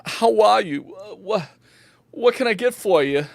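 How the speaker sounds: high-pitched, animated bartender voice. Acted. Bartender greeting an adventurer at the bar, high and welcoming.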